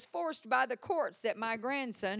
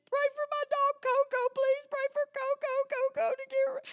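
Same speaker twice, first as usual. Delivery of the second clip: put-on much higher pleading old lady voice; 5 dB louder than usual. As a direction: squeak it out like a fussy lady begging for her dog. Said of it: "and she said".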